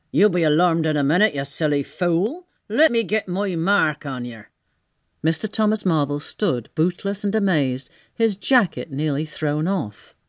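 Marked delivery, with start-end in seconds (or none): 0.1-4.4 threatening tramp. Acted. Marvel threatens the voice.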